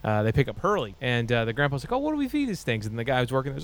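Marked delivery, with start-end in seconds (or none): 1.9-2.9 high quavering mock old man; grandpa voice. Grandpa asking pet store staff, high old-man voice. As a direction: voice a fussy grandpa, pitched up.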